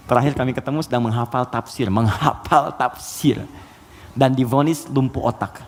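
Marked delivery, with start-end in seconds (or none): 1.9-3.5 drawn-out, syllable by syllable; deliberate, very slow repeat; slow emphasis. Real, not acted. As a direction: stretch it slowly for weight. Repeats phrase slowly for emphasis.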